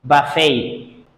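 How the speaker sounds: BUFFET said buh-FAY, silent T; correct pronunciation. Shown as a demonstration. Teacher models another silent T word, correct pronunciation. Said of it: "T at the end of the word is not pronounced".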